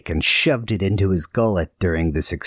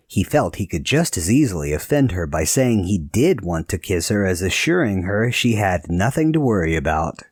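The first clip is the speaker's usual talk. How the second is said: usual speaking voice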